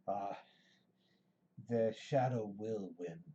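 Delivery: slow, raspy wraith voice, lightly done; raspy Nazgul voice. Acted. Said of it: "hear its rasping voice as it says".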